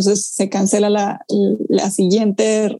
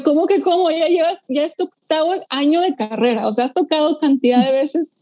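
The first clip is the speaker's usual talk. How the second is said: incredulous; 3 semitones higher than usual. Retold or imitated. Disbelief at friend's question.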